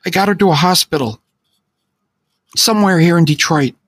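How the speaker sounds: high, tearful voice on the phone; frightened friend crying for help; in tears. Acted. Friend calling from Detroit, high and tearful. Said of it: "he said, now clearly in tears".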